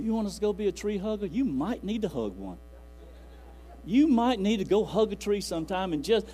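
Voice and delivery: mock challenge. Preacher voices a mocking challenge.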